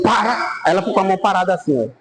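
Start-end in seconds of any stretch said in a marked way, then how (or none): 0.0-0.3 mild mock yell of stop; a short raised stop order; retold shout. Priest stops the woman's blow, mild mock yell. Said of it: "aí eu dei um grito".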